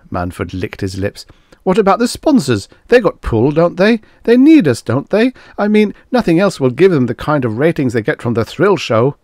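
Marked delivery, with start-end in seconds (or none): 1.6-9.2 very high, loud, nervous questioning; anxious pleading. A narrator's reading. Manford pleading that sponsors still need them, anxiously. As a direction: grasp desperately for reassurance.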